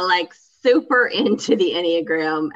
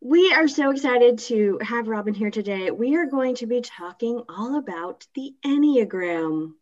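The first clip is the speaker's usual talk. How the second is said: measured, slowing public-radio host intro; NPR voice. Pretend. Host introduces today's guest Robin and topic in an NPR voice. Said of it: "you have your N P R voice on".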